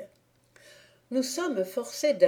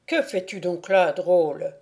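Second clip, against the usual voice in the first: louder, gruff challenge from a stranger; 4 dB louder than usual. Acted. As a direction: demand it of the drunk. Stranger challenges Thibault in dark.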